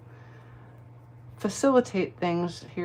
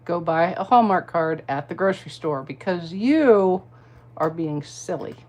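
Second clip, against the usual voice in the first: polite put-down; 6 dB louder than usual. Retold or imitated. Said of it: "very politely".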